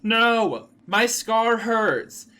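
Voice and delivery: high, loud pained scream, last words slow. A narrator's reading. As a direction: cry out as the scar burns. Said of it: "He started to scream".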